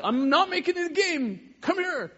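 high loud parental call; calling after toddler. Retold or imitated. Father chasing his giggling daughter, high loud call. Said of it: "And I'm like".

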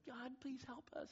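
high, small pleading prayer; retold cry for help, soft and slow; imitated crying out. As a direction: plead softly in a child's high voice. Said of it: "cried out and said".

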